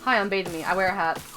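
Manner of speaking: lightly imitated deadpan introduction; a hint of an impression, played low-key; Beta Me. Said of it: "That's my impression".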